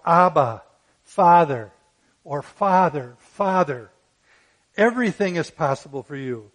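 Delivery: loud, pleading cry of Abba, Father. Retold or imitated. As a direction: call out to God in anguish, full voice. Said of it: "And he cried out".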